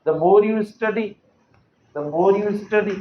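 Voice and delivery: slow dictation. Shown as a demonstration. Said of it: "मैं लिखूं".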